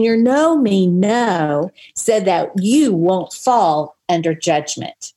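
measured Bible reading voice; scripture reading. Acted. Reading James aloud to listeners, measured scripture read. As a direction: read the verses out steadily, like church.

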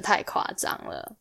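breathy whispered thought to herself; a whispered private aside. Retold or imitated. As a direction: drop to a whisper, half to yourself. Inner thought in retold scene.

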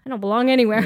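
mock despair through a laugh; laughing mock cry about not belonging; laughing lament. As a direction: wail it half laughing. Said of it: "I'm like".

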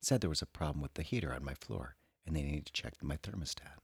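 soft sultry reading voice; sultry perfume ad. Acted. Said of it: "read that with a sexy, sultry voice".

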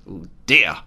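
low, muted mock dismay; a small tut-tutting "oh dear". Mock dismay at illegal activities.

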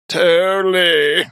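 slow creaky "Totally" with high rise; vocal fry. Shown as a demonstration. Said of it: "That's vocal fry".

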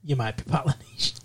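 mock punchline. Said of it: "what he's doing".

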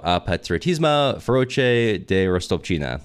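clumsy French accent, reading French words. Shown as a demonstration. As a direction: sound out the French like an English speaker. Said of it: "I'm not even gonna apologize for my French accent".

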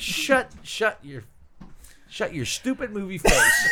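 laughing, half-shouted mock anger; mock exasperated shout.

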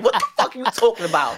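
mock outrage through laughter; laughing quote. Real, not acted. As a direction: toss it out while laughing. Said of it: "I will laugh today".

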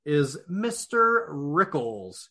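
lightly hyped emcee calling the order; announcer. Acted. Announces the night's running order.

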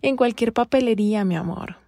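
sugar-coat the answer through clenched patience; fake sweetness. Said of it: "como con un amor hipócrita".

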